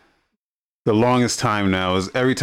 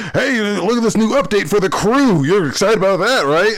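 high, louder fake-cheery sales pitch; mock promotional excitement; 11 semitones higher, 4 dB louder than usual. Company plugging a new update to fans, in mock excitement. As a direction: fish for agreement with overdone hype.

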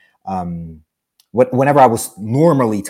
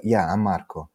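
dry, uninterested reply; imitating someone who doesn't want to talk; 3 semitones lower, 5 dB quieter than usual. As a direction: give a curt, unengaged answer. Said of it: "so dry".

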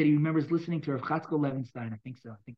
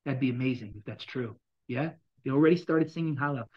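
ordinary talk, nothing marked

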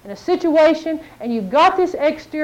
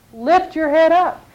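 slow urging; 2 semitones higher, slower than usual. Acted. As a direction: lean in and repeat it. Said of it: "God's speaking to you".

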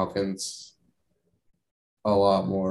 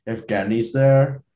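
bad Russian accent. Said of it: "terrible Russian accent".

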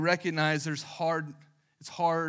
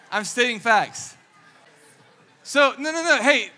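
loud, high, mock-defensive; raised voice, half-joking protest; playful protest; 5 semitones higher, 9 dB louder than usual. Real, not acted. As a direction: fend off the crowd, laughing. Defending herself to laughing audience.

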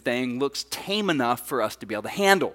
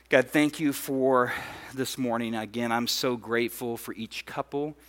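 softer, lower praying voice; prayer; 3 semitones lower, 4 dB quieter than usual. Real, not acted. Pastor thanks God for the couples, prayerful. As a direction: pray quietly and sincerely aloud.

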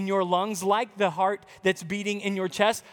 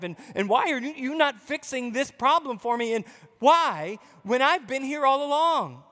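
rising, aggrieved plea to God; a hint of a wounded, demanding prayer; complaining believer; 3 semitones higher, faster than usual. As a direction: whine at God like you've been cheated. Preacher voices a complaining believer.

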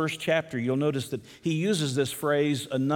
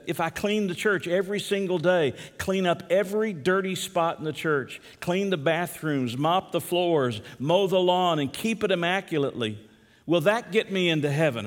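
lightly voiced teacher, pitched higher; Sunday school teacher; 4 semitones higher than usual. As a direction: quiz the class, piling up each item in a raised voice. Voices teacher quizzing her class.

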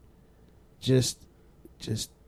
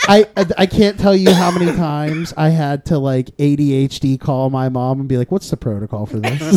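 laughing; 11 dB louder than usual. Real, not acted. Laughing through story.

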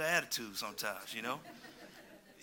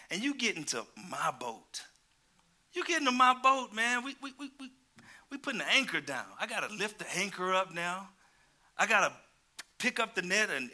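Peter with attitude; 4 semitones higher than usual. Retold or imitated. Preacher voicing Peter complaining to Jesus, exasperated. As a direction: complain like a fed-up worker asked for more. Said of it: "he's like".

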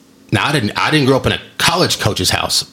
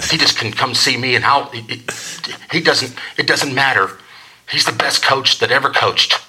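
lightly voiced doting mom; imitated mom; 2 semitones higher than usual. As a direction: defend him like a loyal mom. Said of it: "that's what a conversation sounds like".

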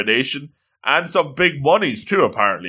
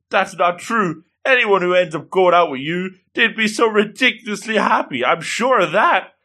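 high-pitched, insistent comforting; raised, emphatic sincerity; earnest reassurance; 6 semitones higher than usual. Retold or imitated. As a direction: reassure with acted fervour. Acted earnest reassurance of rejected girl.

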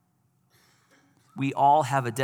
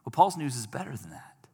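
whisper. Real, not acted. Dramatic reveal in sermon.

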